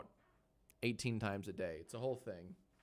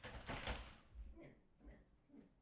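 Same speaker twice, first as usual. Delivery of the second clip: breathy whisper to the dog; soft whispered come here calls; whispered coaxing; 17 dB quieter, slower than usual. Real, not acted. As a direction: whisper to lure the puppy closer.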